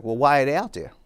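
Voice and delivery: imitated teacher's impatient demand; retold frustration. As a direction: press the question, mildly exasperated. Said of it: "she was frustrated".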